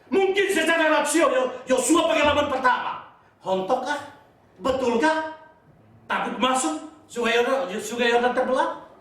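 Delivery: high, insistent rhetorical questioning; forceful preaching. Real, not acted. Preacher questioning whether the Jordan will part, insistent. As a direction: press each question on the congregation.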